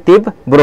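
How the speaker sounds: তীব্র as "tib-bro"; doubled-b pronunciation. Shown as a demonstration. Teacher giving students the answer, তীব্র said "tib-bro", demonstrative. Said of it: "তাহলে কি হবে?".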